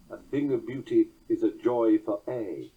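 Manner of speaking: "A thing of beauty" recited to a falling, stressed "aye"; stressed masculine ending. Shown as a demonstration. Lecturer trying Keats's altered line, ending on stressed "aye". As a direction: land the line on one strong syllable, "aye". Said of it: "find a monosyllabic word meaning ever".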